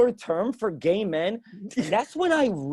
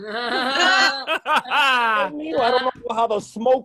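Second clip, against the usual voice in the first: put-on old-school Spanish dad; 3 semitones higher than usual. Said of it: "every old school Spanish dad".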